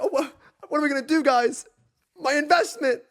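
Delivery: fast, whiny mock complaint; sped-up whiny chatter imitation; mocking whiny viewer. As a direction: rattle it off like a pouty viewer.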